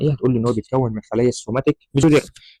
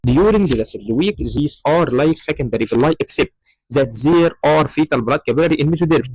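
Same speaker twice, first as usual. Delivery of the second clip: reading out a definition, slowly and word by word; slow textbook reading; much slower than usual. Acted. Lecturer reads textbook definition to students, slow dictation.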